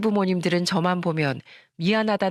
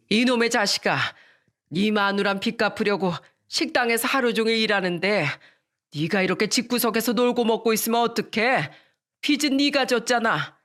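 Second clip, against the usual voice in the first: angry mother; 4 semitones higher than usual. Retold or imitated. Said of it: "어머님이 남편한테 화를 내고 있더라고요".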